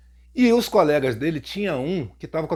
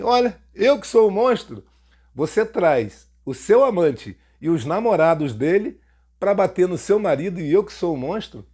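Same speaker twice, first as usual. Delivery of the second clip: indignant retort. Retold or imitated. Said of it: "Falei assim mesmo pra ela".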